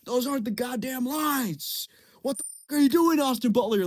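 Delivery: high-pitched mock outrage; hammed-up director losing patience; exasperated director. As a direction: interrupt the take in disbelief. Exasperated director halts the take.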